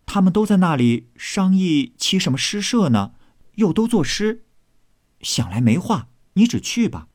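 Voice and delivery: put-on high-pitched young servant voice; lightly voiced chatty maid. Maid reporting on the poetry club, high and brisk.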